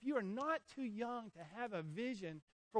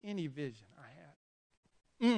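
choked up; 4 dB quieter than usual. Real, not acted. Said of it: "that's the only emotion I've got".

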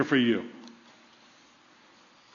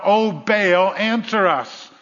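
raised, imploring call; imitated cry to a god; retold crying out; 3 semitones higher, 3 dB louder, slower than usual. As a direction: call out as the priests pleading. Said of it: "crying out".

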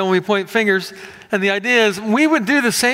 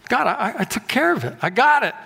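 higher, self-assured mock Abraham; imitating Abraham; 4 semitones higher than usual. Abraham assures God he has it covered, higher mock voice. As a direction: brush God off with a quick fix. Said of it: "we work out an easier road".

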